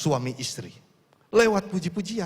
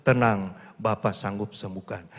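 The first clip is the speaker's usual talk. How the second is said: reassuring fatherly God; 6 semitones lower than usual. Retold or imitated. God voiced reassuring the sick.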